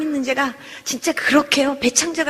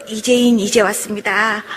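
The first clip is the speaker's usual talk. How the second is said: drawn-out, halting recital of a taught prayer; slow earnest prayer; 5 semitones lower, 3 dB louder than usual. Retold or imitated. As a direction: recite it slowly, stretching the words. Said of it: "그렇게 기도를 하면서".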